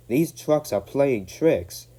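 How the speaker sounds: slow, breathless; panting. A narrator's reading. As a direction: pant between words. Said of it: "panted James".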